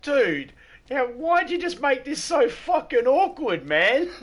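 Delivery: high, loud, incredulous protest breaking into laughter; mock exasperated outburst. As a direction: exclaim it in comic disbelief, voice shooting up. Acted protest at an awkward request.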